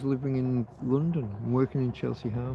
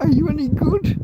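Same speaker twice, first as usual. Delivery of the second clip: high, teary retelling of the band's question; laugh-cry the line out; tearful quote; 12 semitones higher, 4 dB louder than usual. Real, not acted. Quoting the bar band through tears, crying. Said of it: "I'm crying just at the".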